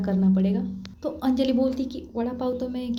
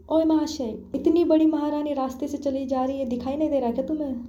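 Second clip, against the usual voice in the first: angry shout at biker; 5 semitones higher than usual. Acted. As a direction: yell at the reckless rider who nearly hit her friend. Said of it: "मतलब उसकी आवाज़ बहुत तेज़ है".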